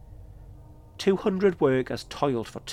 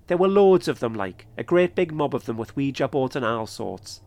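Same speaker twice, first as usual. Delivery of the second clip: strong Geordie voice, loud start; a lightly put-on Geordie accent; 4 dB louder than usual. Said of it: "he said in a strong Geordie accent".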